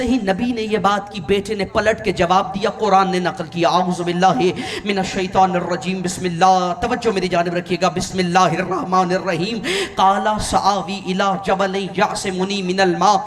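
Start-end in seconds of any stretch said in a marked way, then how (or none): 3.7-13.2 intoned Arabic scripture recitation, measured and reverent; Quranic recitation. Acted. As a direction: recite the verse with reverent cadence. Preacher recites Quran verses.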